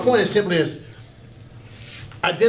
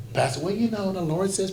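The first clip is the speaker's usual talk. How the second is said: mock pastoral tone; 4 semitones higher, 5 dB quieter than usual. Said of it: "I don't talk".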